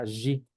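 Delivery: G said as a buzzing "zhi"; voiced zh pronunciation. Shown as a demonstration. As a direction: say G like French "j" plus ee. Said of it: "O cuando está sola".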